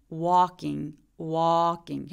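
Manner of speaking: "walking" with flat tongue, open aw; flat-tongued aw in "walking". Shown as a demonstration. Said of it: "혀가 바짝 바닥에 그냥 누워있는 느낌으로".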